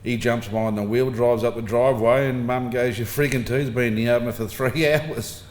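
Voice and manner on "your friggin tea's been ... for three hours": mum's telling-off broken by a laugh; laughing mock scold. Mum scolding dad and son about cold tea, laughing.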